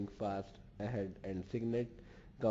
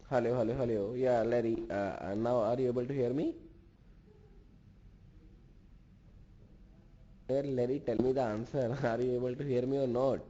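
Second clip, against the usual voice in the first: raised voice, calling into a bad line; calling out loud; 4 semitones higher, 5 dB louder than usual. Real, not acted. Lecturer on a bad call, calling out loudly to Larry. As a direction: call out so the far end can hear.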